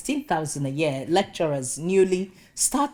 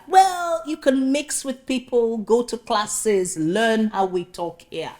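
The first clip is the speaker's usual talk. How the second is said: lecturing Welshman; 4 semitones higher, slower than usual. Retold or imitated. Welsh boss lecturing applicant, high then slow. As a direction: spell out the lesson slowly. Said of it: "reply to question".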